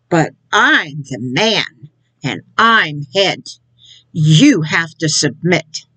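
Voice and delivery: low, slow mock husband laying down the law; mock domineering husband. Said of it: "you know what you're gonna see?".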